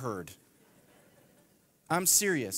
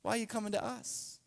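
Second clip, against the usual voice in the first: imagined shepherds; 4 semitones higher, 7 dB quieter than usual. Retold or imitated. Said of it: "I can imagine the shepherds thinking".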